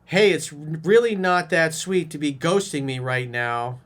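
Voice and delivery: slow, loud, pissed-off mock read; mock angry butthurt. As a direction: sneer it out like a sulky angry texter. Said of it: "Does that sound calm?".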